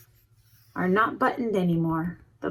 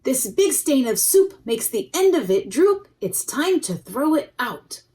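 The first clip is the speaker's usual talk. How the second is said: mother's voice; 4 semitones higher, 4 dB louder than usual. Acted. Mother scolds Joseph.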